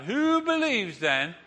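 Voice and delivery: slow, grand call with a laugh; showman challenge. Retold or imitated. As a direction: draw it out like a ringmaster. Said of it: "he says to the crowd".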